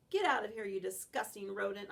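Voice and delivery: loud, stern warning bark; barking at squirrel. Acted. Dog guarding the park, loudly warning the squirrel. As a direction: drive the rodent off with a loud warning. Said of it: "I bark".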